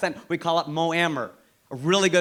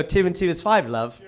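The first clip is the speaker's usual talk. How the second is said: British accent. Shown as a demonstration. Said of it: "But if I go".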